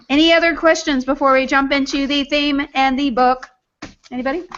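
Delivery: even, robotic monotone. Acted. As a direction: talk like a machine. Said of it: "Did you just talk like a robot".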